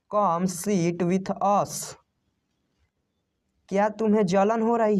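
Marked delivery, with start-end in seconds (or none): 0.1-2.0 slow inviting take with stress on come. Shown as a demonstration. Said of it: "आओ हमारे साथ बैठो".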